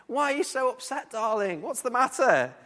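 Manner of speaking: lightly voiced Jezebel coaxing her husband; mock sweet wife. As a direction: fuss over him like a doting wife. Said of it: "she's like".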